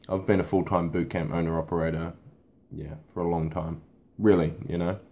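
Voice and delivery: talking while chewing almonds; words around a mouthful of nuts; mouth full. Real, not acted. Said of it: "I've got some almonds in my mouth".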